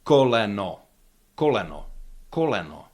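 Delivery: "Koleno" with both o's full and round, e open; full vowels. Shown as a demonstration. Teacher showing vowel quality doesn't change, full-vowel "Koleno". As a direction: repeat "Koleno" separately, no vowel reduced to schwa. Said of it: "Vowels quality doesn't change".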